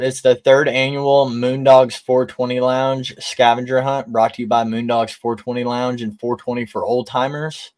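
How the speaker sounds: stoned, hazy read. Real, not acted. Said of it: "I'm sorry, I'm stoned".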